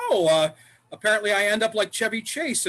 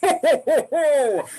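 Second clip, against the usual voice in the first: high, loud jolly ho ho; big booming Santa ho ho; Santa laugh; 6 semitones higher, 5 dB louder, slower than usual. Acted. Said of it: "Salvation Army Santa".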